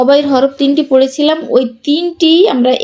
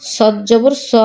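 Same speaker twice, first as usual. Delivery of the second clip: no stretch on স; short vowel. Shown as a demonstration. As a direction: end on a short স. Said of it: "কোথায় দ্রুত পড়ি".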